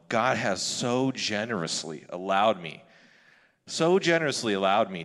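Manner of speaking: sarcastically overstate the praise; sarcastic. Real, not acted. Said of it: "I'll say this sarcastically here".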